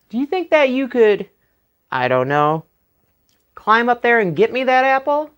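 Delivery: butter him up with mock politeness; flattering Jack.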